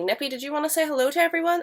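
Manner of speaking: high, quick question to a pet; coaxing a pet. Real, not acted. Coaxing the cat to greet viewers.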